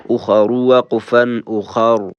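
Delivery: full, heavy R in both forms of او خا رو. Shown as a demonstration. Teacher showing joined and stopped forms, heavy R. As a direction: keep the R of او خا رو thick, joined and stopped.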